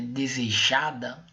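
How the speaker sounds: "desejada" slowly, with weight on JA; stress on JA. Shown as a demonstration. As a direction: lean on the next-to-last syllable, JA, in "desejada". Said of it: "aí o já já partiu, deslocou para a penúltima sílaba".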